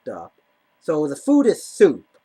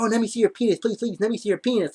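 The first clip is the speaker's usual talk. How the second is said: higher-pitched mock begging; pleading; 5 semitones higher, faster than usual. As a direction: imitate her insistent begging, pitched up. Imitating date begging at bathroom.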